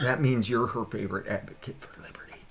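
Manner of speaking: unvoiced teasing whisper. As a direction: hush it like a secret. Mock seductive banter.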